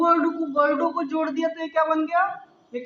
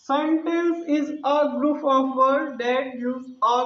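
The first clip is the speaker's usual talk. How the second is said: slow read-back; much slower than usual. Shown as a demonstration. Teacher reads back full definition.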